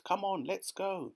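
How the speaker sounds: high-pitched, keen urging; rally everyone to get moving; eager chorus. A narrator's reading. Everyone keen to look around, chorusing eagerly. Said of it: "they chorused".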